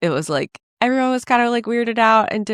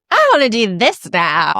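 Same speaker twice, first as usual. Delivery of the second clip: impulsive whim; 4 semitones higher, 5 dB louder than usual. Retold or imitated. JFK Jr voiced as impulsive.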